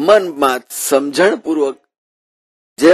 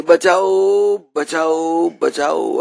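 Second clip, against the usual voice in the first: a saint pretending to be trapped, calling out slowly; mock cry for help; 3 semitones higher, much slower than usual. Saint hugging the pillar calls the sleeping household, drawn-out mock cry. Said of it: "અને પછી બૂમ પાડી".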